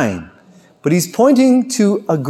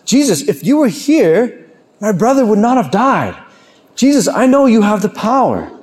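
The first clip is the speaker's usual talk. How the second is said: earnest reproach; 5 semitones higher than usual. Acted. Voicing grieving Martha's reproach to Jesus.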